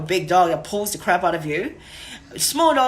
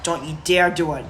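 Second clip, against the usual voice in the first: serious tone; 2 semitones lower than usual. Shown as a demonstration. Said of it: "My serious tone is like".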